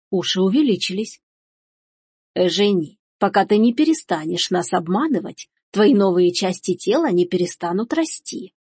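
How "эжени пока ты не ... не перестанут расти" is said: understated stern mother, level voice; curt and final. Acted. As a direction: lay down the verdict, unraised voice. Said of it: "отрезала матушка". (строго, отрезая)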